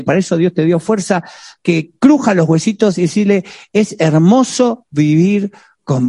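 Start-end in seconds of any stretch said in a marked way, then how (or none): 3.7-6.1 slow, tender declaration while squeezing her tight. Pretend. Husband holding his wife close, slow and tender. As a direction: savor each word like a loving embrace.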